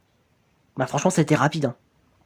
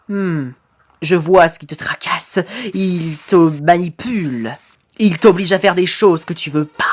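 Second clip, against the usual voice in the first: a hint of an ominous counsellor; knowing ghost; 2 semitones lower than usual. Ghost telling victim the boss manipulates him, lightly ominous.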